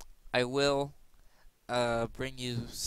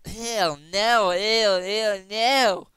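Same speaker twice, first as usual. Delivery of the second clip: disgusted refusal; 6 semitones higher, 8 dB louder, much slower than usual. Retold or imitated. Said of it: "people doing like".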